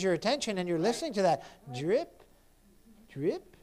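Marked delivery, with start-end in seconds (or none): 1.7-2.2 dripping faucet. Acted. 3.1-3.6 dripping faucet. Acted.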